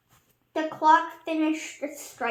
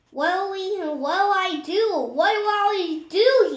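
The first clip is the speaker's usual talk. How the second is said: high, loud frantic squeak; frantic squeaky deputy; squeaky panic; 6 semitones higher, 9 dB louder than usual. A narrator's reading. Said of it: "he squeaked".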